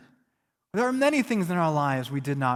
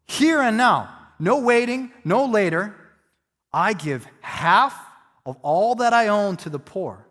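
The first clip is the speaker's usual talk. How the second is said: eager enthusiasm. Retold or imitated. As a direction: promise it gladly, no waiting. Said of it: "the kind of enthusiasm".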